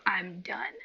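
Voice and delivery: unvoiced "I'm done" whisper; whispered resignation; mock whispered quit. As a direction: breathe it out defeated. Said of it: "they're like".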